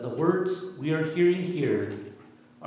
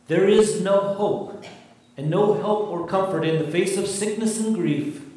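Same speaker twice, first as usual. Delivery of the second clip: louder, higher mock voice of evil; evil whispering; 4 semitones higher, 5 dB louder than usual. Preacher voicing evil speaking into grief, despairing taunt. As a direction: cast despair like a tempter's taunt. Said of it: "When evil whispers the words".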